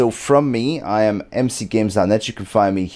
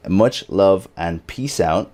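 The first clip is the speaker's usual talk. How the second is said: slow catchphrase; 2 semitones lower, slower than usual. Shown as a demonstration. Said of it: "catchphrase by Mister Riddlesworth".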